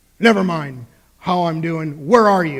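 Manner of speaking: put-on gruff voice. Retelling a phone call from Jack: imitating Jack's gruff voice. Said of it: "in his gruff way".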